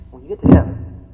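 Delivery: lifted loud preaching cry; rising to a shout. Real, not acted. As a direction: lift it up, calling out to the church. Preacher builds to heaven climax.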